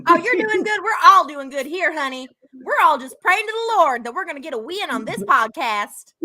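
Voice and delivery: playfully put-on voice, laughing at the start; lightly hammed-up mimicry of a castmate; Jasmine impression. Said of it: "Doing a little Jasmine impression".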